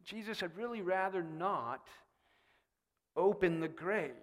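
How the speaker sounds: hesitant, with long awkward pauses; gently balk, halting mid-request; awkwardly voiced mild reluctance; reluctant. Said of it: "She expresses reluctance".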